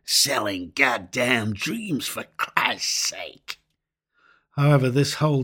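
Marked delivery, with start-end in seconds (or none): 0.0-3.6 put-on mid-Atlantic accent. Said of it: "He spoke with a strange mid-Atlantic accent".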